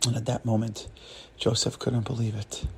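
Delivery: low, soft, stricken narration; hushed shock. A narrator's reading. Storyteller after the cleaner's rebuke, hushed and low. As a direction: drop right down for the blow.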